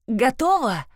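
eerie warped voice from the pool, high; a genderless otherworldly voice, relentless; distorted voice. A narrator's reading. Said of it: "произнёс искажённый голос из чернильной лужи".

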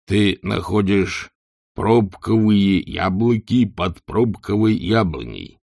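slow, dull barbarian reasoning. Acted. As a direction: spell out the logic like a barbarian. Barbarian Hrun explains logic.

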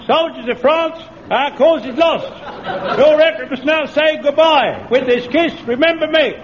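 brash music-hall comic voice; impression of a music-hall singer. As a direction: bellow it like a music-hall singer. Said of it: that it's not the singer himself.

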